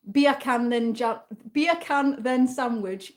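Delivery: beer can said as Jamaican bacon; light mock Jamaican accent; Jamaican accent joke. Shown as a demonstration. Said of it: "You can speak Jamaican".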